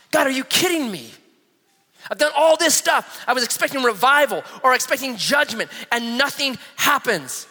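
high-pitched exasperated protest to God; bummed complaint. Acted. Elijah complaining to God after failure, bummed. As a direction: start high and aggrieved, slowing toward the end. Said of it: "He's so bummed".

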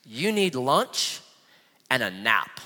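slow, dropping low and soft; understated gentle advice. Acted. Angel advising exhausted Elijah, calm and understated. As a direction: lay it out slowly and simply.

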